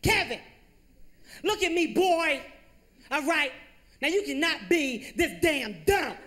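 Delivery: mock-furious mom drilling simple math; frustrated mom yelling. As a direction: yell at Kevin in half-laughing exasperation. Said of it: "She started yelling at me".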